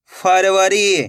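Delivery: slow, stretched reading of the whole word; joined-up word. Shown as a demonstration. Teacher showing learners the finished word, slowly joined up. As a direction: blend the syllables into one drawn-out word. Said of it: "तो मिलके बन जाएगा".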